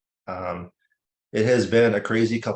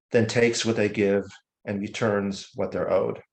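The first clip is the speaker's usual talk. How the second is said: measured poem recital with deliberate pauses; unhurried, elegiac poem reading; poetry reading; slower than usual. Acted. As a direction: recite it line by line, letting each image land. Reads own poem aloud.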